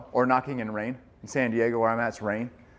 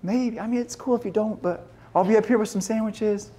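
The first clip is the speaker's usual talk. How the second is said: mock casual offhand; 10 semitones higher than usual. A friend casually inviting a buddy out of the water, mock offhand. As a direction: shrug it off lightly. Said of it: "You're not gonna be like".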